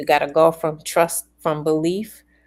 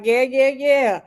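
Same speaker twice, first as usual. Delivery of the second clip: higher, louder burst of yeses; excited agreement; 5 semitones higher, 6 dB louder than usual. Acted. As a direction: cheer it on eagerly from within. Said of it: "I'm like".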